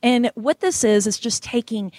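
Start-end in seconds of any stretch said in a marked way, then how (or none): 1.1-1.9 light Oklahoma accent slipping in; a hint of Oklahoma accent on regular folks. Real, not acted. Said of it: "There's my Oklahoma accent".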